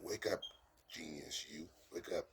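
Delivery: half-yelled wake-up call; mild mock yell. Driving teacher yelling to wake the learner's sleeping genius, mild mock yell. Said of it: "when they yell, they're saying".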